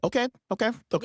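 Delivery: very high, chirpy okays. Retold or imitated. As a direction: squeak it like an eager assistant. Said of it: "So she's like".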